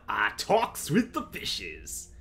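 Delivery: slow silly pirate voice. Pretend. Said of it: "talk with the fishies".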